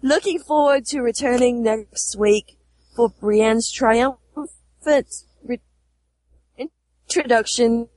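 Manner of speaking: put-on a light Australian accent, reading. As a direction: read it in a mild Aussie accent. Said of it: "Your Australian accent never fails to amuse you".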